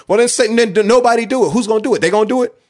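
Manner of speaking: fired up, pitch jumping up high; worked-up rant, voice climbing high; getting emotional. Real, not acted. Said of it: "I'm getting emotional".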